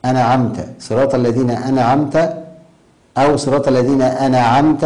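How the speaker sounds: أنعمت with a released, echoing n, near "ana'amta"; bouncing nūn. Shown as a demonstration. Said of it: "يقلقل النون".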